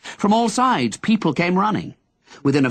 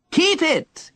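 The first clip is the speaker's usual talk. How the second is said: shout. Acted. Henry calling down to the young man, shouting. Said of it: "Henry shouted at him".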